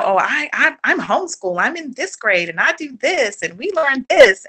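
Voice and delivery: eager, bouncy rattling-off with pride; proud. Retold or imitated. Homeschooled kid telling people about school, proud. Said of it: "like, proudly".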